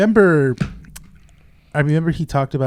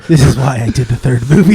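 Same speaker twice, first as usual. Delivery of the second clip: mock gloating; 13 dB louder than usual. Both act the star.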